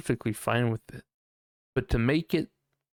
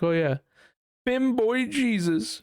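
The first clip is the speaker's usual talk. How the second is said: hammed-up, sing-out excitement; mock manic outburst; 11 semitones higher than usual. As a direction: blurt it out like a wild idea. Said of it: "schizo moment".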